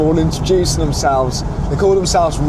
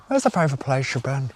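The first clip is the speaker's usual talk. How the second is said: lightly imitated Northern Irish accent; 5 dB quieter, faster than usual. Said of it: "I need to stop doing the accent".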